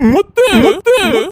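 loud, high, urgent call of her name. Acted. Husband cries out to his wife to stop her, loud and urgent.

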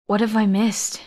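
rasped. Acted. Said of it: "I rasped out".

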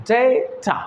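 ডেটা split as "day, ta"; two syllables. Shown as a demonstration. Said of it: "দুটি syllable রয়েছে". (ডেটা দুই সিলেবলে ভেঙে)

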